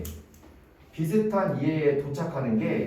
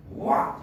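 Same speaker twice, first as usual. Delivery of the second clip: mock angry roar; slower than usual. Shown as a demonstration. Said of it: "왓은 항상 화가 나니까".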